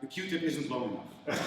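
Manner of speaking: ordinary delivery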